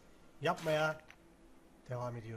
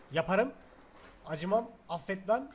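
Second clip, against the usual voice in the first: louder and rising; Yaparım shouted as a threat; mock threat; 7 dB louder than usual. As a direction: threaten the game.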